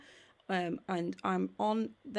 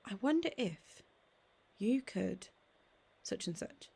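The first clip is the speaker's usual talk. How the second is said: playful changed tone. Shown as a demonstration. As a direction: make it sound like a fun secret. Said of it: "I will change it and say".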